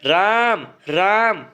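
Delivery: राम with the vowel stretched long, as a mild call; calling out Ram. Shown as a demonstration. Teacher showing how one calls Ram, drawn-out call. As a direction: call राम across a distance, holding the आ. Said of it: "राम को बुलाना है तो आप क्या कहेंगे".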